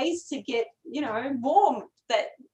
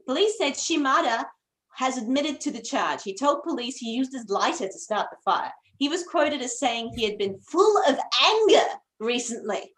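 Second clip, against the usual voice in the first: news announcer voice. Acted. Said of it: "do my best news announcer voice".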